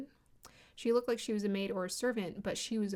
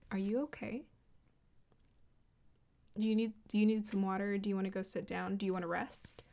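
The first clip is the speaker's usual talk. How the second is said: gentle voice; faster than usual. Retold or imitated. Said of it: "that gentle voice".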